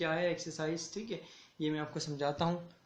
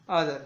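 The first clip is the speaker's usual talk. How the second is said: other with a loud opening syllable, falling after; stress on first syllable; 3 semitones lower, 5 dB louder than usual. Shown as a demonstration. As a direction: hit the start of other hard. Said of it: "यहाँ पर stress यानी जोर दिया जा रहा है".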